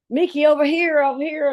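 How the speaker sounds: high-pitched hail across a distance; imitated calling out. Pilots hailing a lost passenger, high mock calling-out. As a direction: mimic someone flagging a person down.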